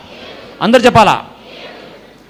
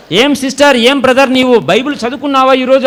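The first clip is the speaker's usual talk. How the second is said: elder questioning; 4 semitones higher than usual. Retold or imitated. Voicing an elder questioning a member.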